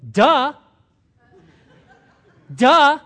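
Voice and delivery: loud, scornful duh; teenage duh, overdone; mock duh. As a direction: sneer it at Captain Obvious. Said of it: "And you would go".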